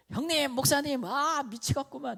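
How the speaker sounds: high, loud mock Korean regional accent; exasperated regional dialect. Young pastor phoning an older colleague to vent, exasperated regional dialect. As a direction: imitate a fed-up caller in broad regional Korean dialect. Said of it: "제가 전라도 사투리를 잘 못하니까".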